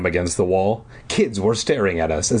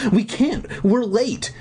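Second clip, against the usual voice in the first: put-on high, hurried girl's voice; lightly voiced hurried girl; 13 semitones higher, slower than usual. A narrator's reading.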